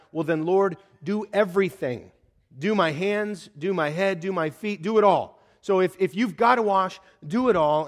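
loud, over-eager insistence; all-or-nothing eagerness. Acted. Simon begging Jesus to wash all of him, over-eager. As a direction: pile up the demands, building to a loud finish. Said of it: "all or nothing guy".

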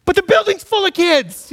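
high, heated shouted comeback; retold yell. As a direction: yell back as if arguing from the car. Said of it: "I yelled at that dude".

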